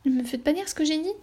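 playful, hurried self-correction; mock protest. Shown as a demonstration. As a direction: tease yourself with a quick mock protest.

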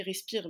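breathless wheezing take; wheezy voice. Retold or imitated. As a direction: wheeze respire with no air left. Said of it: "j'arrive pas à respirer".

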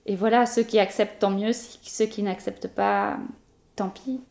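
speaking through a face mask; muffled by a face mask. Real, not acted. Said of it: "on parle avec un masque, effectivement".

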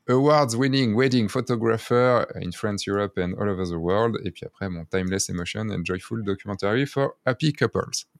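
reading English tagline with a heavy French accent; mock-proud French-accented English. Shown as a demonstration. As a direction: read it like a French speaker proud of his English. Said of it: "Avec su-, mon bel accent".

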